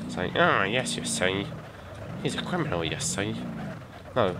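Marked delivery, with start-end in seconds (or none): 0.4-3.3 lightly voiced cartoon crook; cartoon criminal voice. Gamer imitating a half-remembered cartoon, criminal voice. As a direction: try an exaggerated "you see" like a cartoon criminal. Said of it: "I can't do that voice".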